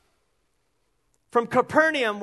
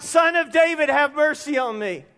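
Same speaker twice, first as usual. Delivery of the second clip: crying out; 3 semitones higher than usual. Retold or imitated. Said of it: "he cried out".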